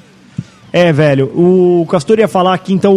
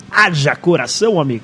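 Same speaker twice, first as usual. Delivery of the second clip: Galvão Bueno impression; 2 semitones lower, 5 dB quieter than usual. Podcaster mimicking a TV football narrator, announcer impression. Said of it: "começa a narrar igual o Galvão Bueno".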